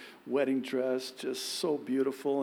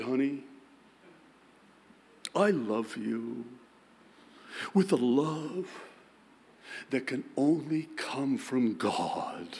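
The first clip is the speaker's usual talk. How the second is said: mock-solemn, slow holy tone; hamming up a pious husband's declaration; husband to wife, mock-solemn King James tone; King James reverb. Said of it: "King James reverb in it".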